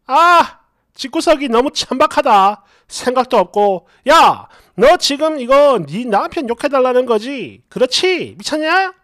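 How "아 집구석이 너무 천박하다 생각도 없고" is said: a hint of loud disgust; disgusted comment read out. Reading a viewer's comment, mock disgusted.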